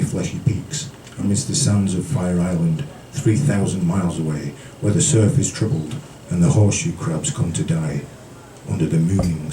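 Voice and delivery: intimate spoken-word delivery; poetry reading. A narrator's reading. Reads a poem aloud.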